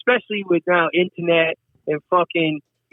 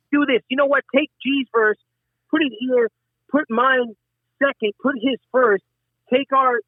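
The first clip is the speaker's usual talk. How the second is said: higher-pitched mock studio direction; producer calling orders; 6 semitones higher than usual. Producer arranging everyone's verses in the studio, retold as excited orders. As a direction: imitate a producer reeling off orders.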